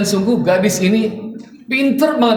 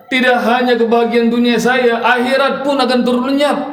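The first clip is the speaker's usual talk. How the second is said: put-on tearful old man; 4 semitones higher than usual. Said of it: "Si kakek nangis lagi sambil mengatakan".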